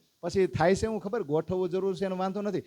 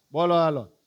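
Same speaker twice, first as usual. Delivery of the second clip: loud call; 6 dB louder than usual. Real, not acted. Calls congregation to recite.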